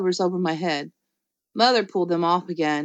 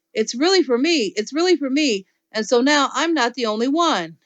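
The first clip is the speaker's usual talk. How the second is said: excited; 5 semitones higher than usual. Acted. Junie B zooming, excited.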